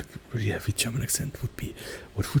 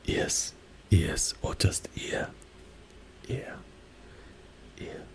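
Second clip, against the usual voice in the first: whisper; 3 semitones lower, 8 dB quieter, slower than usual. Real, not acted. Whispered ASMR throughout.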